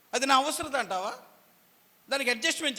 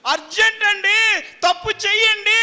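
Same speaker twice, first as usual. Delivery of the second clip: pleading mother; 11 semitones higher, 12 dB louder than usual. Retold or imitated. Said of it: "అని తల్లి నిన్ను బ్రతులాడుతుంది".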